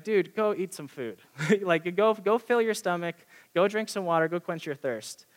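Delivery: mock-incredulous advice with a brief laugh; laughing at someone. Worship leader telling the hungry complainer to eat, laughing at him. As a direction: imitate a friend laughing off the complaint. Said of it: "he would laugh at me".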